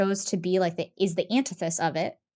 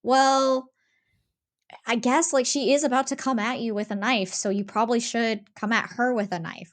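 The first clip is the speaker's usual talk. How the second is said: a hint of the hero reasoning, pausing after a higher "well"; hero's voice; 4 semitones higher than usual. Podcaster voices the game's hero conceding self-defence, lightly acted reluctance. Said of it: "the voice of the hero that's like".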